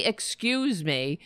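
sarcastic prim excuse me; overly polite mock apology. Host mocking a congresswoman, sarcastic politeness. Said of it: "How do you say".

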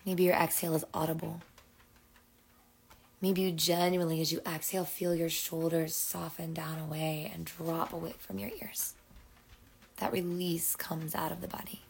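measured breathing-exercise voice, long pauses; guided breathing. Acted. Host invites listeners into big full exhales, guided breathing. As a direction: coax each breath along, phrase by phrase.

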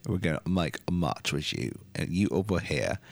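put-on British wrestler accent; lightly mocking British accent. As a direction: talk like a British wrestler squaring up for a match. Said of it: "That accent".

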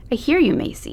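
high, patronizing teacher calm; placating teacher. Acted. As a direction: soothe her like a condescending teacher.

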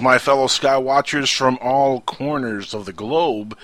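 slow, grand show opener; radio host intro. Acted. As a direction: welcome listeners like a radio host.

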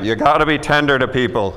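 a mild hint of a patient divine voice; impression of God. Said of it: "That's a good impression of God".

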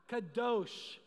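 Kadosh with weight on a drawn-out DOSH; emphatic Kadosh. Shown as a demonstration. Preacher urging the congregation to repeat Kadosh, emphatic. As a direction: say Kadosh firmly for them to repeat. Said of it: "say it with a little emphasis".

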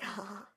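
soft, breath-light mock "ha ha ha"; small pretend laugh under the words; pretend delighted laugh. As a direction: quietly act out giddy laughter. Imagining enjoying the scary height.

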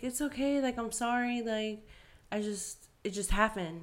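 retold sheepish excuse; apologetic. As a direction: mimic a boyfriend backpedalling, pitch easing down. Voicing boyfriend's flustered apology.

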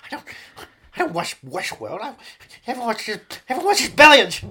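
Paul Giamatti impression. Actor insisting everyone watches Billions, indignant high voice.

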